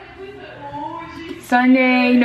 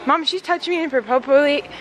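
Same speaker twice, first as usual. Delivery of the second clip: whiny tattling little sibling; 4 semitones higher than usual. Pretend. Tattling to mom as a joke.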